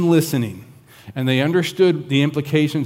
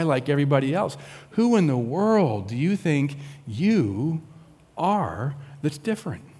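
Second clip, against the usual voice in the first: earnest probing question; 2 semitones higher than usual. Shown as a demonstration. Preacher offers the sincere questioning reading, softening. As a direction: ask "Who in the world do you think you are" as if really wondering. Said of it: "I think what they're trying to do is say".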